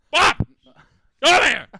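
yelled summons across the room; mock yell for a coworker; calling out. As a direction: shout for Bob to come over. Calling Bob over at work.

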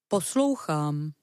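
slow, careful bear voice; drawn-out listening word. Acted. Bear trying to listen, slow. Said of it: "zastavil se medvěd".

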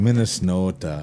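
hammed-up Minnesota long O; broad, playful Minnesota accent. Shown as a demonstration. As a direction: lean on the O like a Minnesotan. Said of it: "I love to hear accents".

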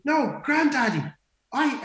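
put-on high, drawn-out child's protest; imitated little girl. Granddaughter answering back to granddad, high childlike protest. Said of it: "And she goes".

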